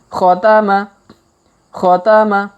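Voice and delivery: khotama said briskly in one breath. Shown as a demonstration. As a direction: read khotama quickly and smoothly. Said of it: "kalau dipercepat".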